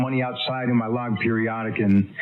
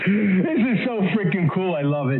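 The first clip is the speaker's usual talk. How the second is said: higher, thrilled burst; real delight; 6 semitones higher than usual. Real, not acted. Watching his contact's stream, a thrilled higher burst.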